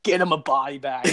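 playful quoted taunt; movie quote. Retold or imitated. Greeting Nick in the hallway with a playful movie taunt. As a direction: toss out a catchphrase with a laugh. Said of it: "and be like".

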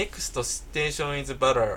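English announcement. Shown as a demonstration. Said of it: "例えば".

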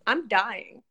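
rough raspy croak; hoarse voice. Real, not acted. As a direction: speak through a hoarse throat. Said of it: "You sound like a demon".

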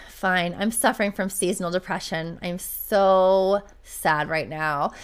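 retold glum admission, dragging out the end; low-key mock misery, drawn out; mock mopey. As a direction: imitate a sulking husband, slow on "so sad". Husband's grudging, mopey confession retold.

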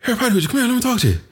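high, hammed-up Irish traveller accent. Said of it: "a proper traveler accent".

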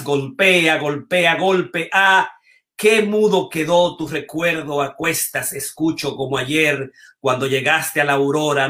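measured, lyrical reading with lingering pauses; poem reading. Acted. Host reads Darío Tejeda's poem aloud, lyrical and unhurried.

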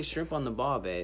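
lightly imitated Australian accent. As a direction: echo a mock Australian accent. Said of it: "give me your best Australian accent".

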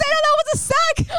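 very high, hyped mom voice; imitated excited mom. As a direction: squeal it like a proud new fan. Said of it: "I'm picturing your mom saying sack".

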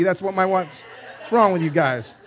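usual speaking voice

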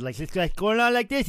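hammed-up wrestler promo voice; Ric Flair impression. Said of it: "doing this Ric Flair impersonation".

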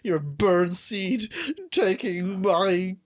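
a hint of a cranky old man ranting; grumpy old man. Old man yelling at kids off his lawn, mildly heated. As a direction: chase the kids off your lawn. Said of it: "possessed by some kind of old man".

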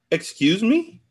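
high, loud incredulous question; shocked disbelief. A narrator's reading. Friend reacts to the confession, incredulous. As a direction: pitch jumps up in affronted disbelief.

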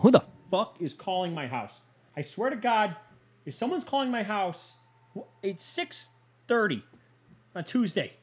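high-pitched, incredulous annoyance; exasperated outburst. Real, not acted. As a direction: complain in a high, exasperated voice at the interruption. Irritated by phone ringing mid-recording.

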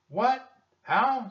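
very high, loud squeal of questions; surprised. A narrator's reading. Annie demanding to know what they must send, surprised. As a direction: burst out, pitch shooting up. Annie startled by Jack's news.

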